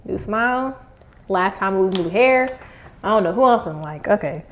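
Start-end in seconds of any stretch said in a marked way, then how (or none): 0.0-0.8 slight lisp from retainers; talking with retainers in; wearing a retainer. Real, not acted. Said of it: "So if you hear a lisp".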